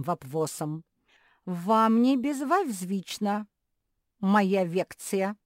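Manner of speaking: loud, slow lecturing with r and l turned to v; speech-impaired professor. A narrator's reading.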